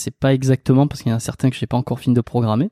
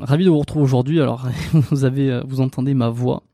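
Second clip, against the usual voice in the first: hoarse voice from a cold; croaky, sick-sounding speech. Real, not acted. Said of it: "On dirait que j'ai une voix d'outre-tombe".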